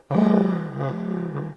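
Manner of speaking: drawn-out mock sound of exhaustion; wordless impression of being worn out; imitated weary noise. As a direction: act out someone worn out, without words. Imitating Paul at evening's end.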